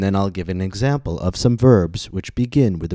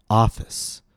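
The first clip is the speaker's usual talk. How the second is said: "Office" with a long "ah" at raised pitch; stress on first syllable; 3 semitones higher than usual. Shown as a demonstration. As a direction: lean on the first vowel of "Office". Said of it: "the vowel ah is long, and my pitch rose on ah".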